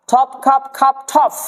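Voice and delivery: slow ঠপ খাপ ending in an f-like ঠফ; aspirated stops. Shown as a demonstration. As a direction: drill ঠপ খাপ slowly, puffing each first consonant. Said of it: "প কে ফ করতে হবে".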